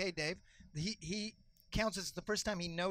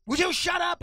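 ref yelling; 11 semitones higher, 10 dB louder than usual. Retold or imitated. Ref loses patience with kid.

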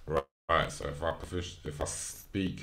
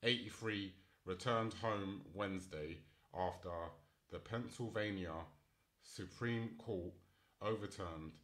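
reading article aloud; 6 dB quieter than usual. Real, not acted. Reads news article aloud.

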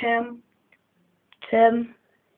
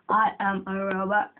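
robot voice; 4 dB quieter than usual. Pretend. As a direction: speak like a stiff robot. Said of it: "talking fake like a robot".

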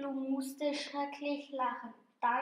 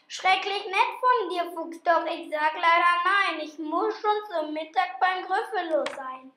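higher, bright little mouse voice; plucky mouse; 5 semitones higher, 6 dB louder than usual. Acted. Little mouse turning down the fox, higher and polite.

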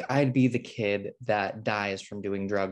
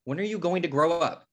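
much higher and louder; exasperated outburst; 8 semitones higher, 3 dB louder than usual. Acted. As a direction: blow up at your sister. Siblings fighting over the will.

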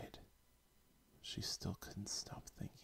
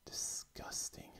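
mock scoff; slower than usual. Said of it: "Judy scoffed".

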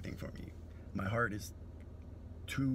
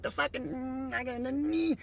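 much higher, stammering confused voice; malfunctioning brain; 13 semitones higher, 3 dB louder than usual. Retold or imitated. Troll whose brain glitches at kindness, high confused stammer. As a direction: glitch mid-sentence like a broken robot. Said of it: "their brain starts to malfunction".

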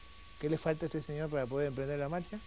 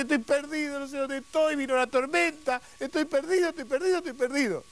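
high, loud acted lament; hammed-up wail climbing in pitch; despairing wail; 9 semitones higher, 4 dB louder than usual. Lost man answers the voice from above, acted despairing wail. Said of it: "Tanto llora, tanto sufre".

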